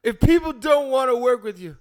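theatrical monologue voice. Pretend. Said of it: "your best monologue voice".

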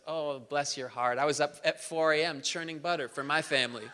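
mock-sweet one-upping neighbour; syrupy one-upper. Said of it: "the over-the-top person says".

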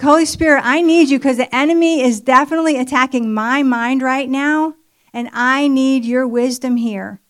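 emphatic plea, starting high and loud; urgent prayer. Retold or imitated. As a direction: call out to God for help. Re-enacting her urgent prayer for help.

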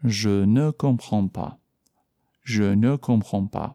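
je ne comprends pas said slowly and evenly; slow model phrase. Shown as a demonstration. Teacher models the negative slowly for students.

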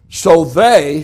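"they" set out for the listeners to echo; stress on THEY. Shown as a demonstration. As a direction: lean on "they" and stop. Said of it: "say they".

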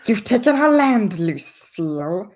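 high, squeaky grung accusing Lucille; squeaky frog creature, laughing through it. Acted.

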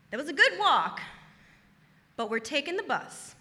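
softly, dropping almost to a murmur; quiet self-advice. Retold or imitated. To her reflection in the mirror, quiet and wry. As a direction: quietly tell yourself a wry lesson. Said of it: "And I say".

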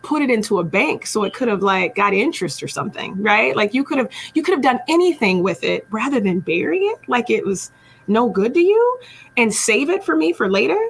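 mildly upset retold scolding; mock exasperation, pitch climbing at the end; upset master. Master scolding servant who buried his talent, mildly upset. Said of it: "He was so upset".

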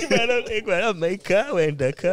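laughing mock. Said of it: "He thinks it's called Dakar Rally".

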